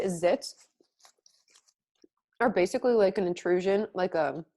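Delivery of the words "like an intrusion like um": talking while chewing; words round a mouthful of food; mouth full. Real, not acted. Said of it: "sorry, I'm chewing".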